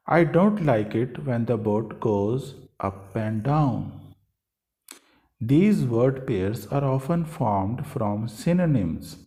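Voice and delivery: slow, deliberate textbook reading; teacher reading aloud. Acted. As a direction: read each word out slowly for learners. Teacher reads textbook sentences.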